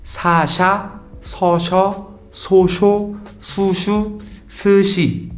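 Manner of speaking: sa then sha, each pair set against each other; s and sh contrast. Shown as a demonstration. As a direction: drill so then sho, su then shi. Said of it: "já deu pra notar essa pronúncia".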